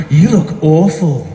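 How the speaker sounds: slow, drawn-out blunt remark, lightly voiced neighbour. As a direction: say it slowly like a frank neighbour, only a hint of her. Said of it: "she goes".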